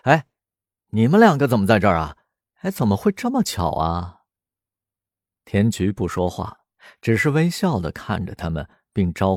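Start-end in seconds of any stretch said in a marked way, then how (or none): 0.0-4.2 quick, mock-astonished questions; feigned surprise. Caught-out guy greeting friends with mock surprise. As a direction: play innocent, overdo the surprise. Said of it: "石龙故作吃惊地说".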